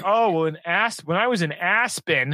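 mock name-dropper's proclamation; mock loud boasting. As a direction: imitate someone announcing it for all to hear. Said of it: "and he said very loudly".

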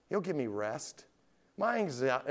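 ordinary delivery

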